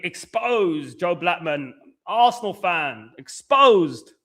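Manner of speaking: slow, drawn-out mock exposé headline; mock headline announcement. Streamer teasing Joe with a clip title, slow mock announcement.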